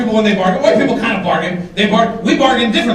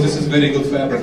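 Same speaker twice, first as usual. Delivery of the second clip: put-on low heavy Arab dad accent; lightly voiced Arab dad; arabic accent; 7 semitones lower, 3 dB quieter than usual. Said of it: "My dad goes".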